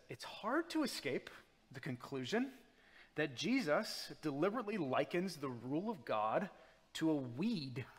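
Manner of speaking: lightly voiced stuffy academic; nerdy academic voice. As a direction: read it like a nerdy professor. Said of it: "try and imagine this in, like, the most, yeah, nerdy academic voice possible".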